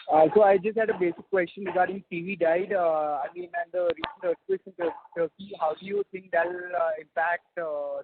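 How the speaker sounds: wavering, vibrating voice over the line; shaky vibrating voice. Real, not acted. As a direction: voice buzzing and shaking through. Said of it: "Your voice is vibrating".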